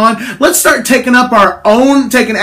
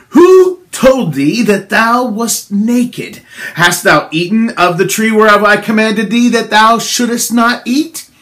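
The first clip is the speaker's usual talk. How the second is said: stern God. Acted. Preacher voices God questioning Adam.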